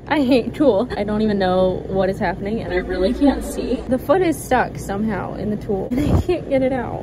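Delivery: loud, exasperated venting at the sewing machine; fed up and shouting at the tulle; frustrated. Real, not acted. Sewing alone, stuck foot in tulle, loudly frustrated.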